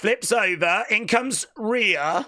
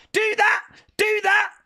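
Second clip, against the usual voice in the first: excited cheer. Real, not acted. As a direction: egg her on. Cheering wrestler on.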